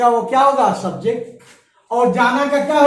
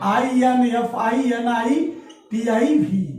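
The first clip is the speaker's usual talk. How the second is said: spelling out slowly; 4 dB quieter, much slower than usual. Shown as a demonstration. Teacher spelling out a word.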